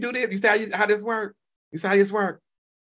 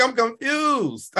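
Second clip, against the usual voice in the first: slow drawn-out confusion; much slower than usual. Real, not acted. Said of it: "I'm like".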